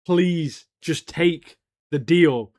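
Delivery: slow, mild imitation of a plea; pleading. Matt kneeling and begging Fisk, slow mild pleading. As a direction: beg him gently, drawing it out. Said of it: "pleading with him".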